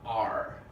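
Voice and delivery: a fully sounded American R; pirate-like R. Shown as a demonstration. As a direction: say "R" like a pirate, R pronounced. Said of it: "Like a pirate".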